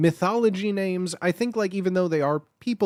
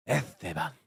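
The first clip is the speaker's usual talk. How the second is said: lower, breathier Spanish Esteban; savoring Spanish name; 7 semitones lower, 6 dB quieter than usual. Shown as a demonstration. Repeating the sexy name, softer and Spanish. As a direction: let Esteban linger, soft and Spanish. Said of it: "that's a sexy name".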